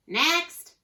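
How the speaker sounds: loud, high parrot summons; blared call. A narrator's reading. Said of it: "blared the pirate, parrot".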